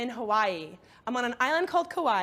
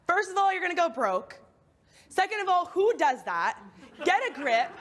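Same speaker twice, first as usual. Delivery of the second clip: loudspeaker in the brain. Retold or imitated. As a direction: berate yourself like a bossy drill sergeant. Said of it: "the loudspeaker in my brain".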